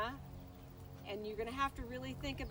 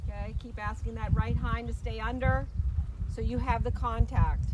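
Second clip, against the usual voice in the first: called out across the arena; brisk projected riding commands; 8 dB louder than usual. Real, not acted. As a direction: project loud instructions to the rider. Instructor calling out to rider.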